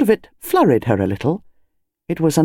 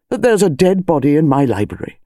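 indignant demand. Acted. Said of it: "demanded Colonel Bantry".

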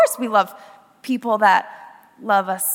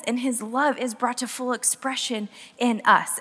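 scripture reading; 4 dB quieter than usual. Acted. Speaker reading First John to youth, reverent. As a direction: read it gently, like scripture. Reads Bible verse.

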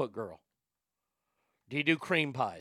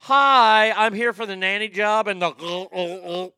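loud, higher fake nanny applicant; dude applicant voice; 5 semitones higher, 9 dB louder, slower than usual. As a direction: greet brightly as the applicant. Dude applying for nanny job.

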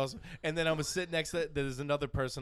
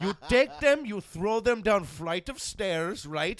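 mock driver ranting; 7 semitones higher, 9 dB louder, slower than usual. Driver's advice on girlfriends.

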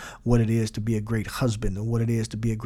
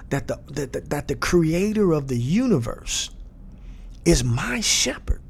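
musing meditation; 3 semitones higher than usual. Shown as a demonstration. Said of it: "now this is meditation".

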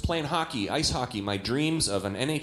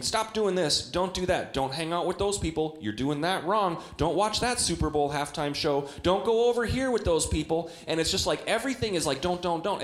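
nagging scold; 4 semitones higher than usual. Retold or imitated. Preacher mocking a nagging church.

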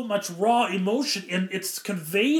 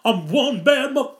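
Audrey II voice; 6 semitones higher, 6 dB louder than usual. Retold or imitated. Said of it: "a little bit more Little Shop of Horrors".

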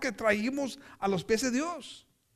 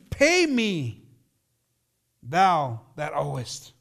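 demanding; 6 semitones lower, 4 dB louder, much slower than usual. Acted. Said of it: "took him by the throat, saying".

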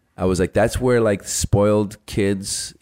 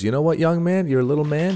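retold movie dad; 8 semitones higher than usual. Movie dad confronting his little boy.

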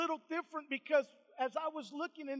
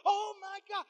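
high, acted disbelief trailing softer; high "oh my God", then softer flustered repeats; retold overwhelmed shock; 5 semitones higher, 3 dB quieter, faster than usual. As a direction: imitate someone stunned on the phone. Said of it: "she just starts bawling and crying".

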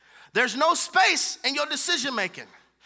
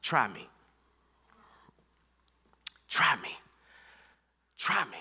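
lower, softer, calm challenge; God's quiet reply; 10 semitones lower, 6 dB quieter than usual. Retold or imitated. Pastor voicing God's answer to him, quiet and calm. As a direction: say it low and steady, like a dare. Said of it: "God told me two words".

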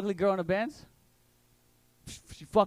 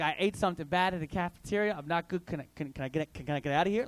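1 stuttering excuse; 3 semitones lower, 3 dB quieter, faster than usual. Retold or imitated. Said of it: "I stuttered just like that".

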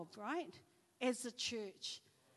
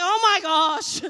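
shocked gasp; 7 semitones higher, 17 dB louder, slower than usual. Retold or imitated. Shocked at instructor's scenario.

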